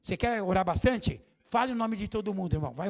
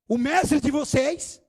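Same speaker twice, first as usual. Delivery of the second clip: loud, higher call over the storm; raised voice of the master calling out; calling out calmly; 4 semitones higher, 5 dB louder, much slower than usual. Retold or imitated. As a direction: reassure them across the waves, slowing at the end.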